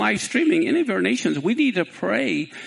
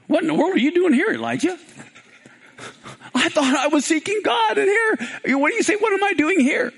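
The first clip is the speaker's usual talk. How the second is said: voice of God; 8 semitones higher than usual. Acted. God rebuking Elijah in the cave, raised voice. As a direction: boom the question down at the prophet. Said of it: "And God comes to him and says".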